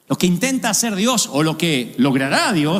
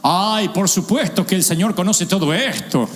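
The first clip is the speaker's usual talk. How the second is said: sarcastic God; 2 semitones higher than usual. Acted. Sarcastic God mocking Job.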